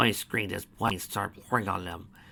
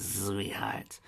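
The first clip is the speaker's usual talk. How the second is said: whispered endearment; 6 dB quieter than usual. Acted.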